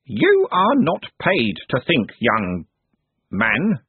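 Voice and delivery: stern servant scolding slowly; rebuking candle knave. Acted. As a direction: put the apprentice in his place.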